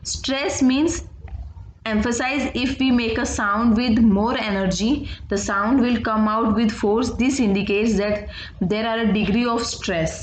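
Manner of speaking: very slow definition read for note-taking; slow dictation. Acted. Teacher to students, slow dictation read. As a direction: read it out slowly so the class can write.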